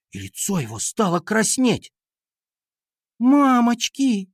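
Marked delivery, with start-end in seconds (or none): 3.2-4.3 high, slow wail of alarm; panicked cry. A narrator's reading. Катя covers her eyes at the stuck fist, panicked cry. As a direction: draw it out in horror.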